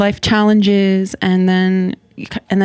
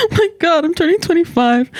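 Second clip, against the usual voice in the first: high-pitched, hammed-up dismay; mock panic; 9 semitones higher than usual. Joking with the host about getting older, mock panic. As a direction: wail it in pretend horror, half laughing. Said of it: "I was just being funny".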